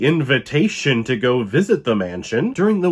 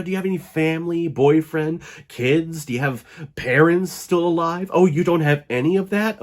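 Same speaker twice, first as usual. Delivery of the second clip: fish for whether anyone would miss her; mock sinister probing; 4 semitones higher than usual. Cousin quizzing the heroine about family, then mock menacing.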